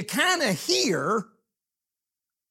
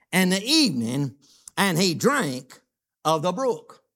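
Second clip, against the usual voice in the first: slow, weighty reading of scripture, louder; 3 dB louder than usual. Acted. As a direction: read the Bible verse out slowly to the church. Reads scripture aloud.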